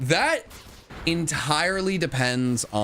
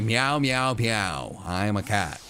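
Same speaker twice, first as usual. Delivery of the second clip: playful cat meows; meowing like a cat; 3 semitones lower than usual. Pretend. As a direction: mew it over and over. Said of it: "I could say".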